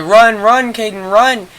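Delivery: high, loud mock command; urgent shout. Friend riding his back urging him on, retold urgent shout. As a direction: yell it excitedly, pitched right up.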